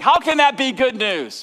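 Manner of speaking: congregation's imagined doubt; doubtful question. Acted. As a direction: sound skeptical and surprised. Voicing listener's doubt.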